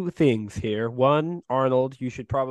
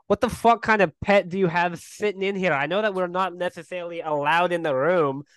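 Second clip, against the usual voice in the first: angry; 5 semitones higher than usual. Acted. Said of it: "start getting real angry".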